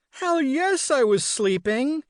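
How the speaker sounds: sarcastic. Acted. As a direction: scoff it sarcastically. Groggy mom mocking early wakeup.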